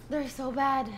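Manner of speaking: talking through hiccups; hiccuping. Real, not acted. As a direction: voice broken by hiccups. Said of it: "My hiccups".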